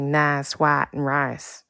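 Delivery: "nas, wat, and rice" with long I leaning to ah; Texas I vowel. Shown as a demonstration. Admitting a Texas birthplace, "nas, wat, and rice" with ah-like vowels. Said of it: "I can avoid overpronouncing".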